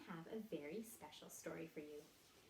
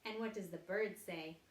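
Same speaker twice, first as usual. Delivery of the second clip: put-on reading to a toddler; 2 semitones higher, 3 dB louder, slower than usual. Animal sounds game for children.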